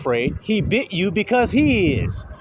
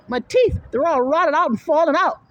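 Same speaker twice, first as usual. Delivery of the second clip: put-on whiny child; 9 semitones higher than usual. Child with rotted teeth.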